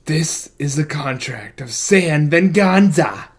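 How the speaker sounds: put-on slow, solemn old-timey proclamation; mysterious old-timey reading. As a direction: read it like an ancient decree. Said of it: "glorious, like, mysterious old-timey line".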